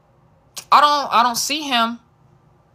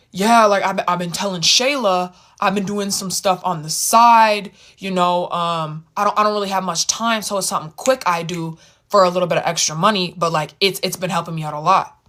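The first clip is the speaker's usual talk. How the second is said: friend explaining his side money in a lightly deepened voice; Darian's deep voice; 3 semitones lower than usual. Retold or imitated. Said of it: "deep voice".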